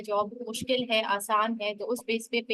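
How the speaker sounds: choppy call audio breaking up; audio cutting out. Real, not acted. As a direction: voice dropping in and out over bad line. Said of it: "आवाज cut cut के आ रही है".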